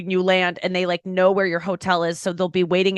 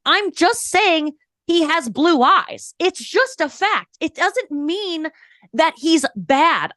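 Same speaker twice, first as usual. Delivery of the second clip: mock innocent; 6 semitones higher, much slower than usual. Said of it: "mock innocent stating a fact".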